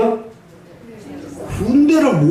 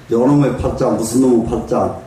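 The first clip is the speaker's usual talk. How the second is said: a lightly voiced sigh over 무슨 놈의 팔자, lower; mock lament; 5 semitones lower than usual. Monk voicing villagers bemoaning their fate, mock lament. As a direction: grumble about your lot, half-hearted. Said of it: "요렇게 한탄하고".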